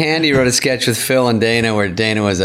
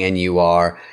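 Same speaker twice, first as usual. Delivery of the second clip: snooty receptionist; 5 semitones lower, slower than usual. Retold or imitated. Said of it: "that receptionist going".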